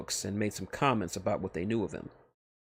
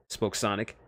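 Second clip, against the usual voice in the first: plain reading voice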